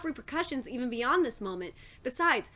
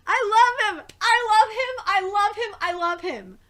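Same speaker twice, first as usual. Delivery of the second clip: higher and louder, fading down; gushing squeal; 6 semitones higher, 7 dB louder than usual. Real, not acted. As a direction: fangirl squeal. Reader gushing over favorite character.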